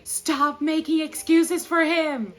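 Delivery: slow, loud, high and stern; angry annotation. Retold or imitated. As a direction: scold the character sharply. Annotating the book in anger.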